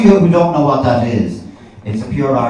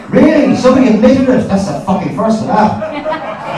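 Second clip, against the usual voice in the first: hammed-up astonishment; mock disbelief; 10 semitones higher than usual. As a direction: pounce on an audience confession in amazement. Mock disbelief at audience member.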